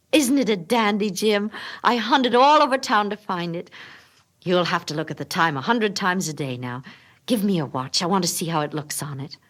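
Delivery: eager Della. Acted. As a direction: offer it out, thrilled. Della shows the chain eagerly.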